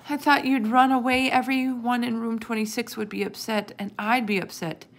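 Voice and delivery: high, loud upset outpouring that eases off; upset child. A narrator's reading. Sophie tells found Humphrey her fears, upset.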